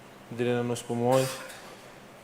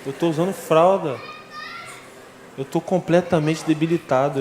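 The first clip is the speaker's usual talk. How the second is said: agitated insistence; 4 semitones higher than usual. Retold or imitated. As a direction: insist he knows the truth, pushing each line up high. Agitated patient arguing with brother in ICU.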